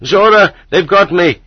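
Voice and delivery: high, loud cry for help; shouting. A narrator's reading. Kolya calls after his friend from the entranceway, shouting. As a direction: call out urgently as you're seized. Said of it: "Kolya shouted after me".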